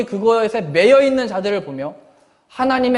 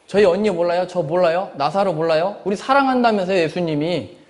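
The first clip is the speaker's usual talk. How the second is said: Mary's reproach. Retold or imitated. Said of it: "이렇게 얘기하는 거죠".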